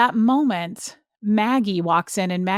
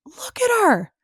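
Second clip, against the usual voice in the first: very high, piercing screamed imitation; full high-pitched yell, imitating an enraged woman; mocking scream; 4 dB louder, slower than usual. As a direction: scream it derisively, drawing out the last words. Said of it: "screamed it like it was me".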